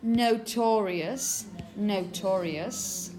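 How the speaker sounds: "notorious" slowly, ending in a weak "us"; slow model "notorious", no U sound at the end; schwa ending. Shown as a demonstration. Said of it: "going to be pronounced exactly the same".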